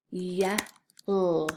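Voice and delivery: Ye-l with "ye" then a separate held l; Ye-l, segmented; sounding out. Shown as a demonstration. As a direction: sound out Ye-l in two pieces. Teacher sounds out word for spelling.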